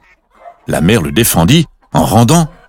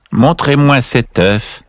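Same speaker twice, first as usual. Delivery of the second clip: put-on old duck; 5 semitones higher, slower than usual. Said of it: "dit la vieille cane".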